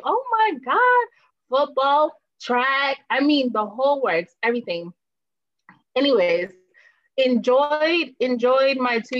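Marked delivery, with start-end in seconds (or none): 0.0-4.9 put-on a girl dazzled by the jocks. Guest retelling how the boys dazzled her, mock swooning. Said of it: "So I was like".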